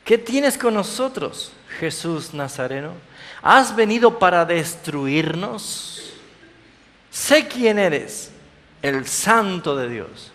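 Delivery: high, slow, menacing demonic cry. Acted. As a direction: drag out the spirit's fearful recognition. Unclean spirit speaks in scripture.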